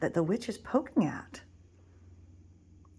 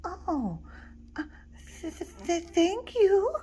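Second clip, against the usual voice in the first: higher, halting stutter; stammering, scared; 10 semitones higher than usual. Acted. Scared little wolf thanks the giant, stuttering. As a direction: stammer out your thanks nervously. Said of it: "still a bit scared".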